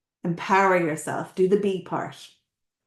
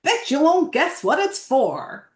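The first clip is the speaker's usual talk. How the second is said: old seller's put-on voice; 6 semitones higher than usual. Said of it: "I don't know what accent I'm putting on".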